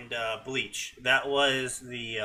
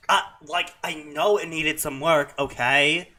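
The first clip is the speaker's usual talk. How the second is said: mock Valley Girl. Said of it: "my Valley Girl accent needed some work".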